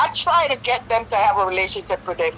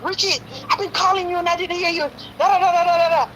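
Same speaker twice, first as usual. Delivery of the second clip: high, tearful rush of excitement; over-excited high voice; 8 semitones higher than usual. Retold or imitated. Mother gushing at son who finally answered phone, high and tearful. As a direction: gush at him, voice high and near tears. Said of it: "Why is she talking like that?".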